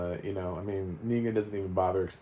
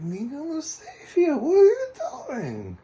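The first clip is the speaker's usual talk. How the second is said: much higher and louder, a hammed-up foreign accent mocking the Croat; the Croat's odd accent; 9 semitones higher, 8 dB louder, slower than usual. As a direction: squeal it out in an exaggerated strange accent, slow and pleading. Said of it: "What is this dude's accent?".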